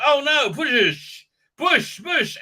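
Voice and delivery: high, slow, strained pushing cry; mock panic. Mocking characters straining in a panicked shout. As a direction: ham up a desperate shove.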